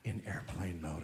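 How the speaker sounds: lightly mock a prim attendant repeating herself; understated smarmy stewardess, low and quiet; smarmy sky waitress. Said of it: "It's like".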